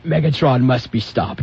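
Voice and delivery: booming metallic robot. Retold or imitated. Transformers quote.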